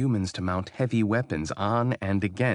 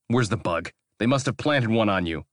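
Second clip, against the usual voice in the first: snarling; 4 semitones higher, 4 dB louder than usual. Acted. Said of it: "Rafe snarled".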